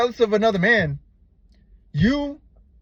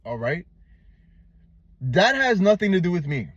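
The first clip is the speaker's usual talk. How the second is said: unbothered. Shown as a demonstration. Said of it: "You gotta be like".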